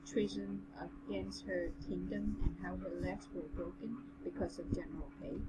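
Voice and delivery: even, measured story reading; story narration. A narrator's reading. Reading the general's tale to a friend, measured narration. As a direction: read it aloud in an understated narrator's voice.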